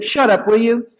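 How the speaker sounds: bossing them out of love; high, loud friendly scolding; loving command. Retold or imitated. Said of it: "She said".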